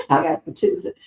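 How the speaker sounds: high, squeaky laugh-talk; cracking up as the words come out. Real, not acted. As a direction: talk through a fit of laughter. Cracking up over movie line.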